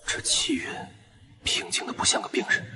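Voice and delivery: hushed, whispery aside; private murmur. Acted. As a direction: murmur it softly under the breath. Private remark near the observed man. (压低声音喃喃自语)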